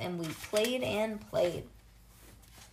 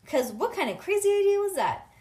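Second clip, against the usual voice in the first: loud, higher, incredulous question; indignant; 9 semitones higher, 8 dB louder than usual. Acted. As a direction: cry out in disbelief at the idea. Story character indignantly questions an idea.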